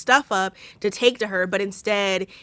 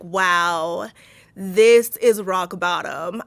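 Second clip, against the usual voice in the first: deadpan; 2 semitones lower, 3 dB louder, much slower than usual. Retold or imitated. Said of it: "The way I would have been like".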